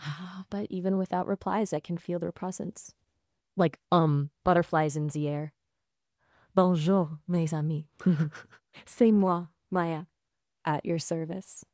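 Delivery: put-on French-accented English slipping into French. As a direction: greet them in a playful French accent. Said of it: "Can you match a French accent?".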